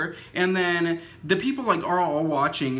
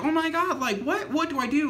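retold panic; 9 semitones higher than usual. Panicking at the crash scene.

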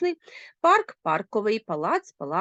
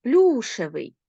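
Плюшевий stressed on ПЛЮ, louder first syllable; stress on the root; 4 dB louder, slower than usual. Shown as a demonstration. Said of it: "Наголос падає на корінь". (наголос на корені: ПЛЮшевий)

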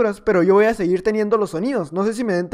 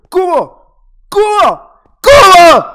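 high, loud pleading viewer voice; imitating a viewer; 8 semitones higher, 12 dB louder, much slower than usual. A fan calling to the streamer, shouting his name. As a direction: call out like an eager fan. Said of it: "me va a decir".

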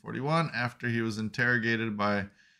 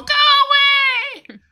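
mock old-lady yell; 13 dB louder, much faster than usual. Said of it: "That's my impression".

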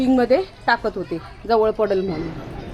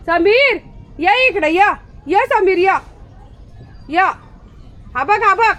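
calling out; 7 semitones higher, slower than usual. Real, not acted. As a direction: call him over, voice raised. Calling Sameer over.

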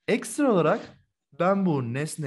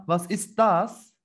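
slow, clearly spaced "was ist das"; slow model question; much slower than usual. Shown as a demonstration. Teacher prompting students, slow and clear. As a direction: ask it slowly for the class.

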